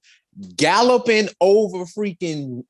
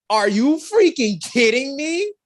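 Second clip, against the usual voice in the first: amazed disbelief; 12 semitones higher, 3 dB louder than usual. Retold or imitated. Amazed reaction to stunt.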